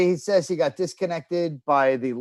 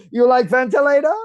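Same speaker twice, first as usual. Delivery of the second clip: mock Asian accent; 7 semitones higher, 5 dB louder than usual. Mock waiter voice continues.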